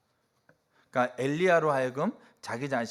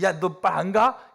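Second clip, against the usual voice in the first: slow, loud mock scolding, higher; a hammed-up angry parent, loud and slow; 6 semitones higher, 7 dB louder than usual. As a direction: bark it like a parent pretending to scold. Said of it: "막 혼내면서".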